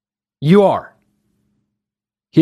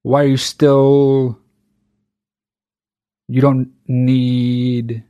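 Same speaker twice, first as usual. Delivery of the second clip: mocking old friend; 4 semitones lower, slower than usual. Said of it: "they were like".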